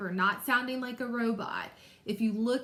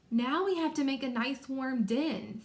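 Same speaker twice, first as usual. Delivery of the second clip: put-on eager storybook child's excitement, lilting; excited Kendra; 3 semitones higher than usual. Shown as a demonstration. Teacher showing pupils how Kendra would sound, excited. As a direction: read it brightly, thrilled to build something. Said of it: "I would think she would be excited".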